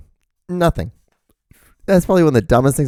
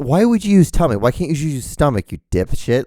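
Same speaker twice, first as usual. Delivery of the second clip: high-pitched mock exasperation; irritated; 4 semitones higher than usual. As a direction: demand it like a petty, irritated critic. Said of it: "I get irritated by the dumbest things".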